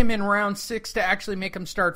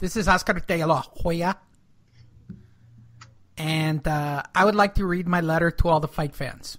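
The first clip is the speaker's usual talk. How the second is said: put-on nasal voice; 3 semitones lower than usual. Trying out an impression, then asking how it sounds: nasal Oscar De La Hoya impression. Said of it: "he's really nasally".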